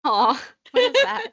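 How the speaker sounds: high, loud laughing aww; laughing surprise. Real, not acted. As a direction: coo and laugh at it. Seeing tiny ice cream ball.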